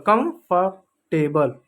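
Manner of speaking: कंफर्टेबल said slowly, syllable by syllable; कंफर्टेबल drawn out for learners; slow careful pronunciation. Shown as a demonstration. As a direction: spell out कंफर्टेबल slowly like a teacher. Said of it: "यानी आरामदायक".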